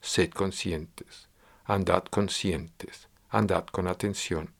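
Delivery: slow, soft admonition to students; drawn-out, calm like a patient teacher; slow gentle voice repeating advice to pupils; gentle teaching reminder. Retold or imitated. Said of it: "Siempre les estoy enseñando".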